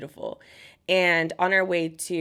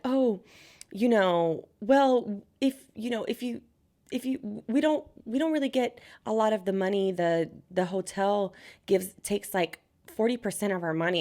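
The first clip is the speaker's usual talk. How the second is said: excusing showgirl; 2 semitones higher than usual. Retold or imitated.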